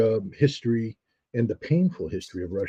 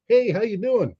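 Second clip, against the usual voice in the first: breezy, high-pitched American hello; throwaway greeting; 11 semitones higher than usual. Retold or imitated. American greeting strangers on the street, breezy throwaway. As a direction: toss it out lightly in passing. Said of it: "I'm just sort of throwing it away".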